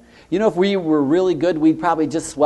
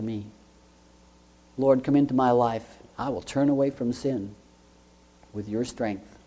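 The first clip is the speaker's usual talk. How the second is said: humble prayer; 3 semitones lower than usual. Shown as a demonstration. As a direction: pray it humbly, almost to yourself. Models a sinner's prayer.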